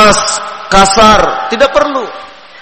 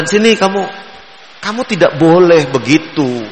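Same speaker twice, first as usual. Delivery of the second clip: firm but gentle. Shown as a demonstration. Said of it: "Meskipun nadanya nada tegas".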